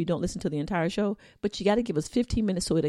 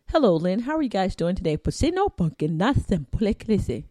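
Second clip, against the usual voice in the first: lightly put-on Mexican accent; mock Mexican-accented greeting; 4 dB louder than usual. Cohost imitating a bilingual work email, mock Mexican accent. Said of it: "That, that was more Mexican".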